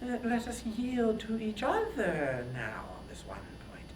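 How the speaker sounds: coaxing, intimate whisper. Acted. Queen whispering a bargain to her husband. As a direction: lean in and breathe it.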